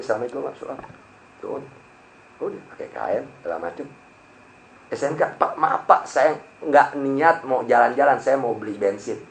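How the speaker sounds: soft, timid apology; meek pleading. Retold or imitated. Rider caught without papers begging the cop, soft and meek. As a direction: plead quietly like you're caught out.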